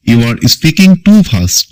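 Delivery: drawn out word by word for learners; slow classroom dictation; very slow model sentence. Shown as a demonstration. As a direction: read it slowly like a dictation. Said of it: "English model sentence, slowed".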